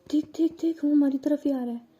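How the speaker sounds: put-on urgent girlish excitement, quick; excited nudge. Friend nudging Megha as the guy approaches, excited and quick.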